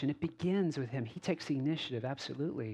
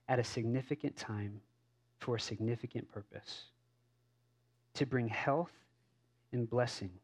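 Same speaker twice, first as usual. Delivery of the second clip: measured, softening words from Jesus to his people; Jesus speaking; 2 semitones lower than usual. Acted. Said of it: "Here's what I think Jesus could be saying to us".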